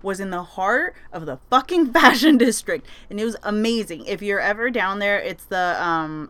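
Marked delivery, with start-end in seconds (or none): 1.5-2.9 laughing through the words. Real, not acted. Laughing as she tells her audience. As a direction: giggle out fashion district.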